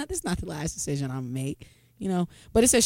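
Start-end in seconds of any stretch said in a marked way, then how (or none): 0.1-1.6 quick quiet mock line.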